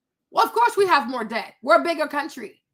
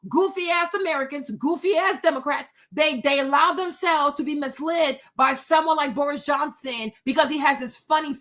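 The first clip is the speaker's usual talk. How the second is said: usual speaking voice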